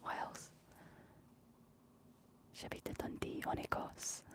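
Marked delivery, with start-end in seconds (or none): 2.5-4.2 whispered French with a Scottish accent; hushed French, Scottish accent. Shown as a demonstration. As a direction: whisper French as a Scot would. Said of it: "I say it in a Scottish accent".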